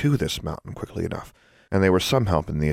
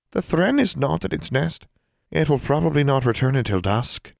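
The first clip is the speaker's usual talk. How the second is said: tiny elf voice; 9 semitones higher than usual. Acted. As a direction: squeak it from inside a rock.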